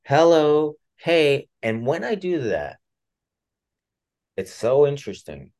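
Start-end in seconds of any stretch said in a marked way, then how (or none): 0.0-1.5 soft bedside voice. Shown as a demonstration. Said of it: "I start training myself".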